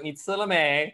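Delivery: Taiwanese accent impression. Comedian contrasting the Taiwanese accent with Beijing, playful mimicry. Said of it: "in Taiwan, it's like".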